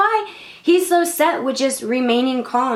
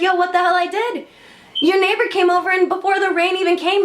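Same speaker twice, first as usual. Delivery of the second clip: higher, mildly exasperated telling-off; acted scolding; 5 semitones higher than usual. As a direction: lightly play God setting the man straight. God scolds the man, retold.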